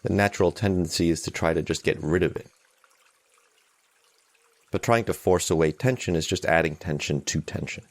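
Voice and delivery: calm, unhurried meditation guide; guided meditation. Real, not acted. Meditation teacher settling listeners into a morning sitting, calm guided meditation. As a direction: lead them gently, with long silences between phrases.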